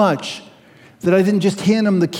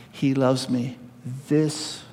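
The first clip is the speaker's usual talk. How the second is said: put-on child voice; 6 semitones lower, 10 dB quieter, slower than usual. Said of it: "she stretched out her arms".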